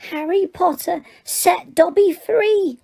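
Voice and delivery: high, slow elf voice with wonder; shrill Dobby. Acted. Freed elf gazes up at Harry, slow shrill awe. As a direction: squeak it out in awe, stretching "Dobby".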